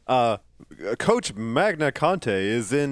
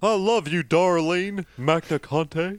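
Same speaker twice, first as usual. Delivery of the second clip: mock declaration; 3 semitones higher, slower than usual. Mock tribute to the wife.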